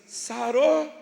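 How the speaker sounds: high, loud mock-sweet motherly check; mother's doting question. Mother asks son if kiss healed it, exaggerated high fussing. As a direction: lift it high as if fussing over a child. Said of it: "Aí olha pra ele e diz".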